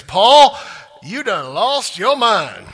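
loud, slow retold shout, pitched high. Preacher voicing Festus shouting at Paul, slow and loud. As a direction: boom it out like the governor losing patience. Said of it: "he says in a loud voice".

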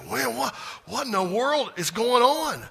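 hammed-up astonished apostle; imitating astonished John. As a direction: play John floored by the vision, breathless and amazed. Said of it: "I don't know if he said it like that or not".

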